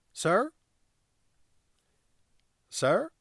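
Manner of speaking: high, urgent "Sir?" repeated; startled call. Acted. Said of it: "said the constable at her arm".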